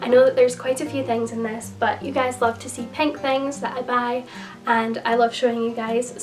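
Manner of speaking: hoarse croaky voice. Real, not acted. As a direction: talk through a croaky throat. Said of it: "my croaky voice".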